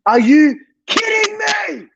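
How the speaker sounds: real cry of exasperation; anguished cry. Real, not acted. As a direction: wail it like a gutted fan. Repeated in disbelief.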